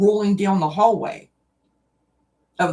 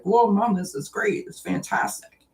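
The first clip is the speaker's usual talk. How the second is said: lightly voiced happy cat, pitched up then falling away; excited cat; 5 semitones higher than usual. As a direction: imitate an impressed cat, lightly. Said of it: "and he was like".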